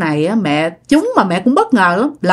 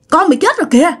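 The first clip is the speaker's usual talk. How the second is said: dead aunt warning; 9 semitones higher, 3 dB louder, much faster than usual. Retold or imitated. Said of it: "mẹ lại nghe tiếng dì Bảy nữa".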